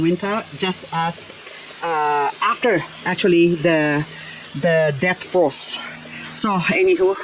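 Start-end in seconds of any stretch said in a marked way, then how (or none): 6.3-7.1 breathy whispered "anywho"; whispered aside. Real, not acted. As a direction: drop to a whisper for a throwaway. Aside before next plant.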